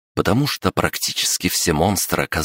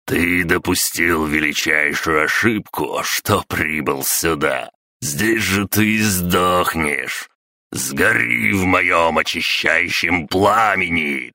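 menacing threat. Acted. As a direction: pronounce a sentence of death. Clan head threatens the demon. (грозно и медленно)

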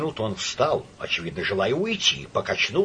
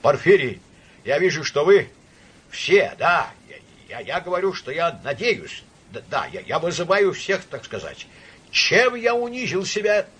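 high, faltering, pleading voice; wounded, tearful appeal; close to tears; 6 semitones higher, 4 dB louder than usual. A narrator's reading. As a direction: stammer it out as if about to cry. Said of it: "Иван Ильич чуть не плакал".

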